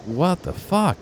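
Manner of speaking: high, loud incredulous yell; high loud what-the-fuck outburst; retold outburst. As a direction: yell it in disbelief at the stranger. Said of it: "And I was like".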